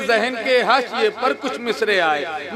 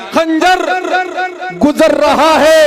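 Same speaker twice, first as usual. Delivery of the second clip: higher, louder poetic delivery; verse recitation; 7 semitones higher, 4 dB louder than usual. Acted. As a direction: build the line up for the crowd.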